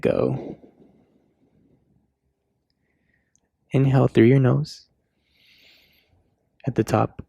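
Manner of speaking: measured yoga cues with long pauses; yoga class guidance. Real, not acted. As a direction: guide them through each breath and pose, unhurried.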